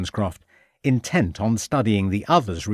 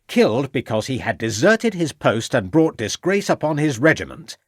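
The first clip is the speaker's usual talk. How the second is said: higher, pressing accusation with a raised voice; raising his voice; 3 semitones higher than usual. Acted. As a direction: drive the charge home, voice rising. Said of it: "raising his voice".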